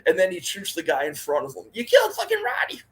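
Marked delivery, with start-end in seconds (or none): 1.7-2.8 movie line shout. Retold or imitated. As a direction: belt it out like the shooter in the film. Quoting Harlem Nights shootout scene.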